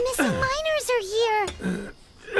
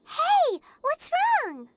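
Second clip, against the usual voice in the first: sharp startled call, higher; alarmed shout; 5 semitones higher, much slower than usual. Acted. Paimon calling out to her dizzy friend, alarmed. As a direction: call out in sudden worry.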